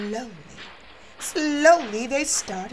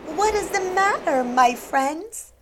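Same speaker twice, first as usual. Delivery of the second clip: kindly; 3 semitones higher, 3 dB louder than usual. Acted. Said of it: "she said kindly".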